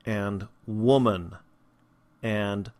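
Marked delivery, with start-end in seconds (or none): 0.7-1.4 "woman" drawn out slowly, first vowel as in book; slow, careful "woman"; horseshoe vowel. Shown as a demonstration. Teacher gives an example word, slow "woman" with the book vowel. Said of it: "this is the sound in".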